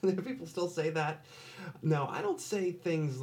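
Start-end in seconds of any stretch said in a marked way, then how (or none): 0.0-1.2 exasperated. Real, not acted. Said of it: "really gets my goat".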